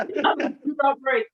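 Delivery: slow, laughing plea; laughing through words. Real, not acted. Telling the host about the chair test, laughing slowly.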